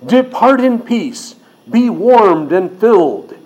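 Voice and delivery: slow, lilting mock benediction; mock blessing. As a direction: send them off with an empty, drawn-out blessing. Quotes the rich person's empty blessing.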